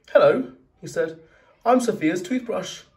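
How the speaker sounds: squeaky little toothbrush then a grumpy bottle; high toy voice. Acted. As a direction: voice the bin creatures brightly.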